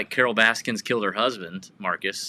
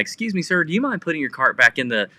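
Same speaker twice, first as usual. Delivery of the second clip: mock-courteous request, lightly pitched up at the start; imitated politeness; faster than usual. Cart vigilante asking a shopper, politely imitated. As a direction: politely nudge a stranger to comply. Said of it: "stays polite the whole time".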